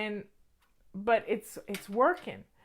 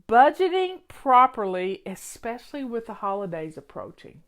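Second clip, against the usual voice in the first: leest het luid en nadrukkelijk voor; loud reading; 6 dB louder than usual. Real, not acted. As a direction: read the title out loud with punch. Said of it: "Look at that".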